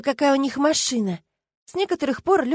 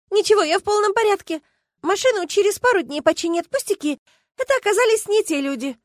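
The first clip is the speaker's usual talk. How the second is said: high, raised, hurried reassurance; agitated friend; 10 semitones higher than usual. Acted. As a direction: keep it high and rattled.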